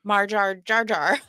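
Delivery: slow mock-Australian "Marjar Jar Jar"; bad Australian accent. Retelling a reel asking Australian people, bad Australian accent. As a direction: stretch each word into a poor Australian accent. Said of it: "I can't do an Australian accent at all".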